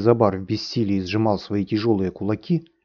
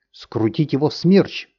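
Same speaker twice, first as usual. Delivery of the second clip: raised squeal, higher; shrieked; 6 semitones higher, 4 dB louder than usual. A narrator's reading. Cyclone threatening the master, shrill squeal. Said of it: "взвизгнул Циклон".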